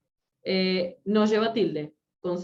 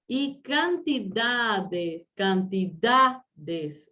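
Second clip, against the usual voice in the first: "cantidades" very slow, syllable by syllable, leaning on DA; stress on penultimate syllable; much slower than usual. Shown as a demonstration. Teacher showing a grave word, slowly stressing DA. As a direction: stretch out "cantidades" to expose the stressed DA.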